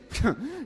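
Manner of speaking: short soft snigger; brief scornful snicker; quick little snigger. A narrator's reading. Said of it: "She sniggered".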